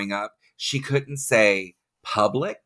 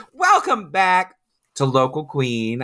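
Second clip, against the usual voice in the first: drawn-out, higher host greeting; show host welcome; 5 semitones higher than usual. Pretend. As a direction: stretch out a big welcome back. Host reopens show after break.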